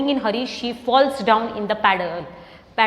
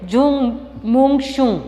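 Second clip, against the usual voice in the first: witch's spell; much slower than usual. Acted. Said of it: "And she says".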